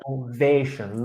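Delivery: Innovation with a long A in the third syllable. Shown as a demonstration. Teacher correcting student, "Innovation" with long "VAY". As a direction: model "Innovation", giving "VAY" its full vowel. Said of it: "long A".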